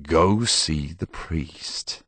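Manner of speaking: halting start, then slow and gentle; awkwardly gentle, easing off after the first word. A narrator's reading. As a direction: soften into a kind, drawn-out instruction. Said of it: "as gently as he could".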